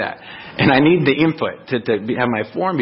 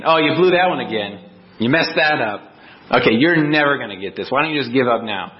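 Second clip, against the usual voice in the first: a lightly voiced heckler, jeering and scornful; mocking heckler; 2 semitones higher than usual. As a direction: sneer at the failure like someone in the crowd. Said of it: "than a heckler in a crowd".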